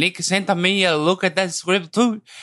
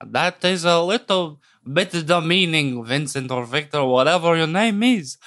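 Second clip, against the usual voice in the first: put-on a weak, slowed German accent with a lowered voice; a lightly put-on German accent, playing the offended caller; fake German accent. Co-host plays a German caller on the phone in a mild fake German accent. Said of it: "that doesn't sound like a German accent".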